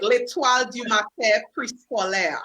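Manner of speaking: school name in a careful French accent; French-accented name, shown on request. Shown as a demonstration. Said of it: "say it in your French voice".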